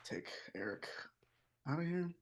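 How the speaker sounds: whisper. Real, not acted. Whispered aside.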